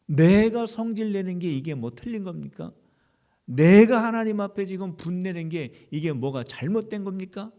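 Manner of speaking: mock-indignant talking back, punched at the start; indignant retort. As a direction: imitate a prophet angrily justifying himself. Acted retort of angry Jonah to God.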